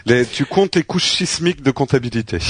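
talking through laughter; amused, laughing while speaking. Real, not acted. Joking about chaotic bookkeeping.

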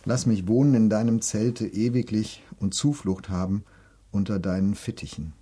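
measured devotional reading voice; psalm reading. Acted. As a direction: read the verses like a prayer. Reads psalm verse five.

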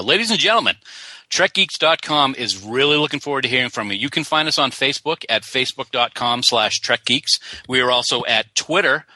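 lightly put-on announcer delivery, evenly projected; radio announcer. Co-host telling the folks how to get in touch, mock radio announcer. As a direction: read out the contacts like a radio announcer. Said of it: "in your best radio announcer voice".

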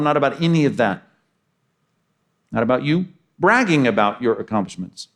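preacher pounding the repeated not about; emphatic not about. Shown as a demonstration. Preacher stressing to the congregation, repeated not about driven hard. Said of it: "even just with a little emphasis".

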